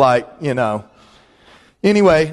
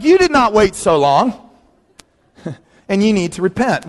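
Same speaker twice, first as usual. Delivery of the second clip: indignant retort; 4 semitones higher than usual. Retold or imitated. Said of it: "I'm like".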